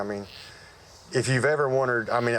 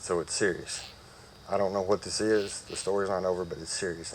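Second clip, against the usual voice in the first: low, quiet delivery; grave retold news; 3 semitones lower, 5 dB quieter than usual. Surgeon telling patient the story's not over, quietly grave. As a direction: relay bad news softly, sinking lower.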